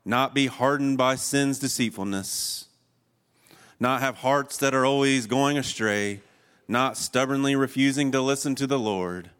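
forceful pulpit exhortation; emphatic preaching. Real, not acted. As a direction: drive each "not" home to the congregation.

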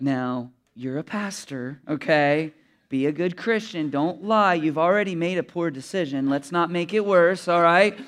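gently scolding conscience, slowed down; little angel voice. Retold or imitated. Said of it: "the little angel's like".

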